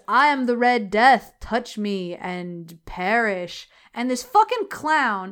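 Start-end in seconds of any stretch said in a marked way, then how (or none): 0.1-3.7 loud then slow menacing proclamation; menacing Red Death. Retold or imitated. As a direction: proclaim doom like a ghost. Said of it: "who says".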